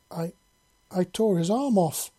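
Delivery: halting start, then burst out in alarm; acted shock at what was done; fearful exclamation. A narrator's reading. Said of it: "she exclaimed, fear lancing her heart".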